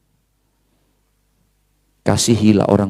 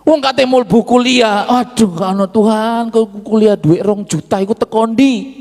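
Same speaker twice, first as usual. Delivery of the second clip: higher, louder imitation of a worried father praying; mock anguished plea; 12 semitones higher, 4 dB louder than usual. Preacher acts out his father begging God for tuition money, raised pleading voice. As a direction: cry out like a father with no money for school fees. Retelling father's anxious prayer.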